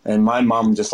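ordinary delivery

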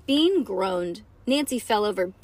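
ordinary delivery

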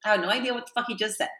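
quick, hushed aside; rushed hushed confusion; muttered aside. Retold or imitated. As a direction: say it under your breath, fast. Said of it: "and I was like".

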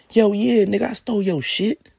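high, loud, brazen admission; Darius's voice. Retold or imitated. Darius taunting Kyler over the phone, high and loud. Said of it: "This is Darius speaking".

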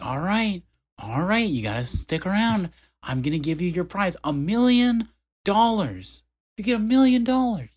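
high game-show hype; high, loud hyped announcer; hyped prize announcement. Retold or imitated. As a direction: sell the million like a host.

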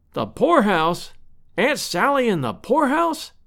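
shocked exclamation. A narrator's reading. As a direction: echo it aghast, pitch leaping up at the end. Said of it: "exclaimed Lovell".

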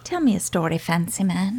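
soft, playful tease; teasing. Acted. Cohost asking him for the story, soft and playful. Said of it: "teasing cohost into storytime".

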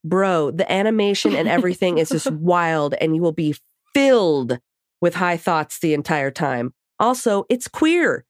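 bright, lively letter reading; reading a letter aloud. Acted. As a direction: read the email out with energy. Reads a listener email aloud.

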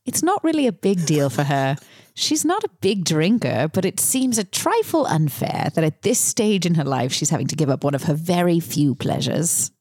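put-on a light British accent, measured and polite. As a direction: play it like a polite British commentator. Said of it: "should I do the accent?".

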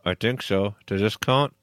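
lips held still, ventriloquist style; talking without moving lips. Shown as a demonstration. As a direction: speak through still lips. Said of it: "without moving your lips".

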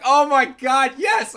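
overjoyed fan finally asked his favorite topic; gleeful squeal. Retold or imitated. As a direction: jump at the question with delight. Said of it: "And I was like".

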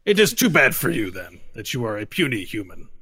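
haughty sneer at a puny human; booming arrogant alien overlord. Acted.

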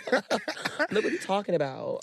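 high-pitched giggle through the words; laughing. Real, not acted. Laughing hard with a friend over a cheeky joke. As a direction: laugh it out, can't hold it in.

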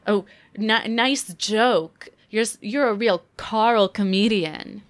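mocking a bad joke-teller; lightly hammed-up sarcastic compliment. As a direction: heap on fake praise with a sneering lilt.

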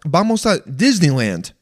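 "Disneyland" in broad American English; mock American-accented "Disneyland"; super Englishy American accent. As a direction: switch to exaggerated English for "Disneyland". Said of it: "super Englishy".

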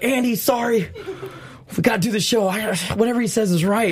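half-laughing, caving in all at once; laughing giving in. Retold or imitated. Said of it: "and I was like".

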